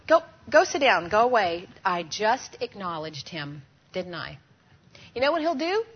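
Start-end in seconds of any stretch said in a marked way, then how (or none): 0.1-1.7 firm, louder shooing of a dog. Retold or imitated. To the begging dog, a louder shooing command. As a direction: shoo the dog away loudly. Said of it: "If I take my hand and go to the dog".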